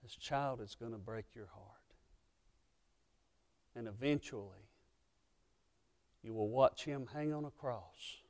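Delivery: hushed, whispered prophecy; quoted warning. Acted. Simeon warning Mary in a hushed whisper. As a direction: breathe the warning softly, like a secret. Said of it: "Simeon's warning".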